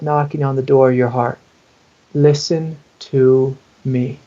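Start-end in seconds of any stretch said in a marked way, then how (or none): 2.1-4.2 very slow, drawn-out plea; spaced-out words of a child asking for attention; pleading inner child. Acted. Anxiety's inner child asks to be heard, slow pleading. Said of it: "is what she's saying".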